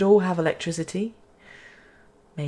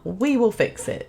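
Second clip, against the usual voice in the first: higher, teasing echo of oneself; mock self-quote; 4 semitones higher than usual. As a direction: quote your own promise back mockingly. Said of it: "she says, not fixing anything".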